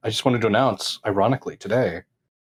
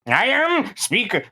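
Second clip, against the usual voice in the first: hammy announcement; 10 semitones higher, slower than usual. Pretend. Hammy self-introduction.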